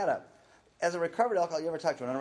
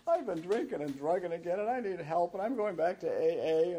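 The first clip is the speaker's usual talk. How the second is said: mock earnest confession; 8 semitones higher, 4 dB louder than usual. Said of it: "I say".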